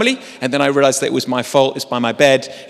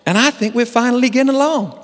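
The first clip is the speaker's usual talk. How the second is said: pleading agent; 6 semitones higher than usual. Retold or imitated. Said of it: "And then he says".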